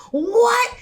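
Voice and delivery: high-pitched, incredulous "what?"; astonished. Retold or imitated. Friend retelling her reaction to Estelle, astonished. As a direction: shoot the pitch way up in mock disbelief.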